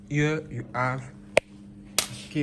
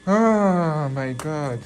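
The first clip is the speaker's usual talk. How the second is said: slow amazed exclamation; 6 dB louder, much slower than usual. Real, not acted. Overwhelmed by dad's gift.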